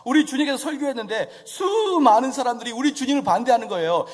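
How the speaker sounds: usual speaking voice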